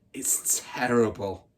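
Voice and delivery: whispered, slow and dramatic; spooky whisper. Acted. Hortensia whispering to frighten the newcomers. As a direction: hush it to frighten them. Bully's scary finish.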